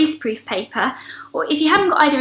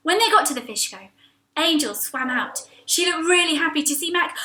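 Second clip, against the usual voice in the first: usual speaking voice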